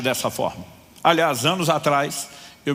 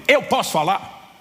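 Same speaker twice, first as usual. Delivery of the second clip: slow, raised question; near shout; 5 semitones higher, slower than usual. Retold or imitated. Preacher to cashier, half-shouted slow demand. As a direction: insist on being heard. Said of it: "eu quase gritei com ela".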